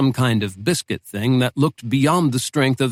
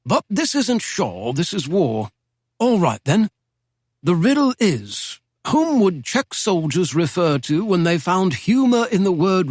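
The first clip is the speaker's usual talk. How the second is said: put-on a lightly raised, genteel old don's voice; old British professor; 5 semitones higher than usual. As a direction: speak as a wry Oxford professor reminiscing. Professor poses the riddle.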